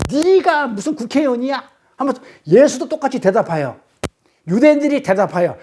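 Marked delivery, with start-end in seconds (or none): 0.1-1.6 higher-pitched, acted comeback; mock defiant retort. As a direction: talk right back, imitating an argument. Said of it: "똑같이 대들었죠". (맞받아 대드는 흉내)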